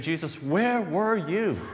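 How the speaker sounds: slow, pointed "where were you"; a slow, aching rebuke; frustrated reproach. Acted. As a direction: let the frustration out slowly at Jesus. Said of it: "voicing her frustration".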